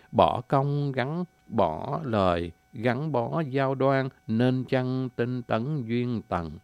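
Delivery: very slow, drawn-out recital of the answering verse; unhurried lyrical answer in verse; slow poem recitation. Acted. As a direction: stretch each phrase like a tender reply.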